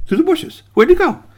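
high, frantic searching voice; bewildered raccoon. Acted. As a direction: cast about in confusion. Raccoon searches for vanished cookie.

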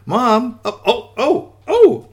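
high, startled little cries; shocked. Acted. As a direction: gasp out rising alarm to Mom. Daughter shocked by walking cookie.

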